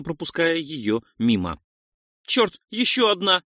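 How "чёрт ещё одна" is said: high, urgent shout of alarm; partner's cry. A narrator's reading. Partner spots another incoming shot, crying out in alarm. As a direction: cry out a sudden warning. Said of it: "на крик напарника".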